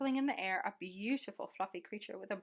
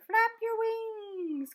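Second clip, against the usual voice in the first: drawn-out, slow call of flap your wings; 9 semitones higher, 5 dB louder, much slower than usual. A narrator's reading. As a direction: stretch each word of Flap your wings out slowly. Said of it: "called the bird".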